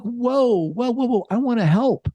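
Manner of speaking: high, alarmed "whoa, whoa"; acted pushback, repeated and high; balking protest. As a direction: imitate someone backing off, pitched well up. Voicing therapists who balk at disclosure.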